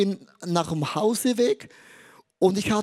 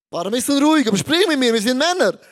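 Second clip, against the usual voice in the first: insistent; 5 semitones higher, 6 dB louder, faster than usual. Retold or imitated. Father pushes son to talk.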